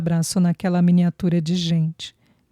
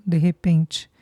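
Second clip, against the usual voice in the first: plain reading voice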